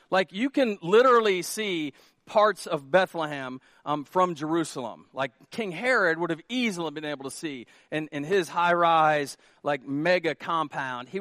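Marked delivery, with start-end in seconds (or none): none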